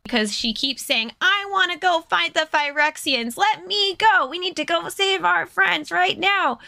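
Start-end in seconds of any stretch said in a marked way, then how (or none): 1.2-6.6 higher, pushy eager voice; impatient hothead. Retold or imitated. Chandra demanding to rush back, higher pushy mock voice. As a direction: play the reckless hero begging to charge in.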